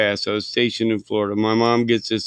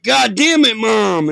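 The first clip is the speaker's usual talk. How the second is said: much higher, frustrated yell at mom; retold yell; 9 semitones higher, slower than usual. On a payphone to his mom, a retold angry yell. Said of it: "And I'm yelling".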